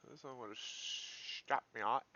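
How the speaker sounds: put-on drawn-out, slow Pennsylvania Dutch accent. Trader telling viewers he'd be stopped out, playful Pennsylvania Dutch accent. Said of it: "A little bit of Pennsylvania Dutch accent there".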